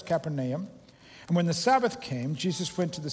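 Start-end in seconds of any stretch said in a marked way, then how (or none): 0.0-0.7 Capernaum spelled out in sound, ka-PER-nay-um; every letter sounded. Shown as a demonstration. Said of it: "just say all the, all the letters".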